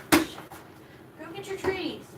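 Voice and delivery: high and very slow, stretching every word; drawn-out pet voice. Real, not acted. Owner coaxing her dog again, high and very slow. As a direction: draw the words out long to coax the pup.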